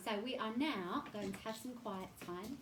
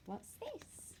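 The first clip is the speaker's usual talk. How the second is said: hushed question; 10 semitones higher, 8 dB quieter than usual. Acted.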